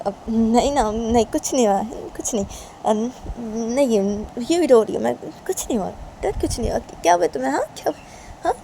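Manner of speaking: lightly acted tearful mother's denial; mother brushing off worry.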